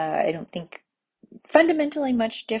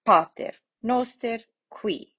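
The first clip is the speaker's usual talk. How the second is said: "Pater Noster qui" as PA-ter NOS-ter KWEE; word by word, stressing the first syllables of "Pater Noster qui"; penultimate stress; 3 semitones higher than usual. Shown as a demonstration. Teacher showing accents in the prayer, "Pater Noster qui" stressed early. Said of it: "the accent will go on the penultimate syllable".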